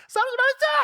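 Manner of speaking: loud high yell to stop the fight; shout. Retold or imitated. Mother yelling at her two daughters, loud and high. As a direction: yell at the kids to quit fighting.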